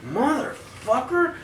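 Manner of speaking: slow, high, held-back menace; retold seething curse. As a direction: draw it out softly as a threat. Retells menace before the fight.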